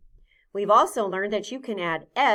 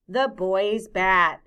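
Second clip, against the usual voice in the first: put-on "The boy's bat." said slowly and clearly; careful slow demonstration; slow model phrase; 3 dB louder, slower than usual. Shown as a demonstration. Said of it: "Say that with me".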